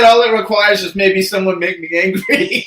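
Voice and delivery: amused repeat through laughter; laughing. Real, not acted. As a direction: laugh while quoting someone back. Laughing while repeating the other's line.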